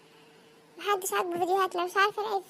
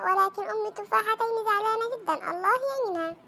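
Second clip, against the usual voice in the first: formal Arabic bulletin delivery; mock newsreader; 2 semitones higher than usual. Presenter reads vegetable market news, mock-formal newsreader. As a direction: announce it like serious breaking news.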